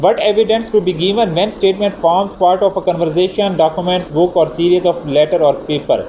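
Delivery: reading a statute title word by word, very slowly; measured, deliberate legal reading; slow formal heading read. Acted. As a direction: dictate the heading slowly so students can note it. Reads the article heading aloud.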